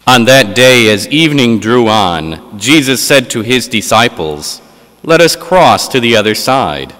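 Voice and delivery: solemn liturgical reading voice; Gospel reading. Acted. Proclaims the Gospel at Mass.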